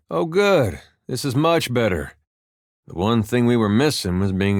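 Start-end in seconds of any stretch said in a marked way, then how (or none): 0.1-2.1 mock relief, pitched up on "good"; sarcastic lift that falls away. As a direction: pretend things have just improved. Mock relief at being bombed.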